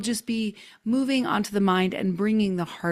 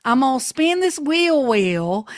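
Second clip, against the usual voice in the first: Southern accent; 2 semitones higher, 5 dB louder than usual. Shown as a demonstration. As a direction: announce it in a showy Southern twang. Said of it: "we only say it with a Southern accent".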